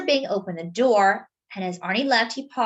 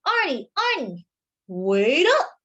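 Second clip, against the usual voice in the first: yelled; 5 semitones higher, 6 dB louder, slower than usual. A narrator's reading. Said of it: "yelled Mister Bing".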